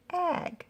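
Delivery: "Ag" alone, high and soft, short a; isolated word ending. Shown as a demonstration. Teacher changing the vowel for pupils, "Ag" sounded out alone. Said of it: "Gonna change the vowel".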